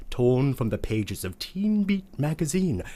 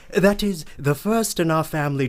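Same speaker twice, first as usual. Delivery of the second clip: sudden correction; 6 semitones higher, 6 dB louder than usual. Acted. Sudden correction mid speech.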